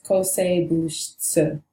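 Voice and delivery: kosebushitsu said in Japanese, slow and even; Japanese pronunciation. Shown as a demonstration. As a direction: spell out kosebushitsu in Japanese sounds. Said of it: "the Japanese word for antibiotics".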